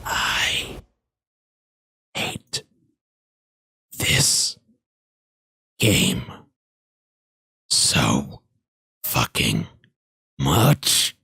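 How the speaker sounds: slow, low, word-by-word fury; drawn-out exasperation with long pauses between words; seething frustration. Real, not acted. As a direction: grind out each word separately, seething at the game. Fed up with the game.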